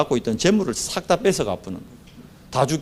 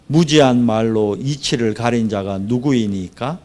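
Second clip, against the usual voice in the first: measured, lower-pitched reading from the Bible; scripture reading; 3 semitones lower than usual. A narrator's reading. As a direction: read the verses out formally and evenly. Reads scripture aloud. (낮고 차분한 성경 봉독)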